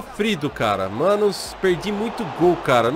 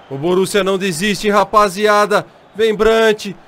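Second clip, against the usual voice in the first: explosive goal commentary; 3 semitones higher, 6 dB louder than usual. Real, not acted. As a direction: hype it up to the goal shout. Attack builds to a goal.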